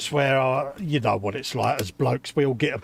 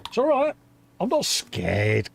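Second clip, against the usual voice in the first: very high, squeaked reassurance; mock bravado; 8 semitones higher, slower than usual. Husband insists he isn't afraid of wife, squeaky mock bravado. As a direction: squeak it out, feigning courage. Feigns not being scared of wife.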